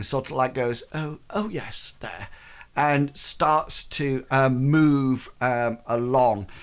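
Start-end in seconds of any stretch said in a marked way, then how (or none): 0.9-2.3 acting flustered. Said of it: "very acting".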